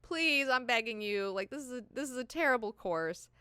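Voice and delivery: high, loud hammed-up mom begging; mock tearful pleading. Irulan in mom mode begs Ghanima, mock tearful. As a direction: plead like an overwrought mother, easing off at the end.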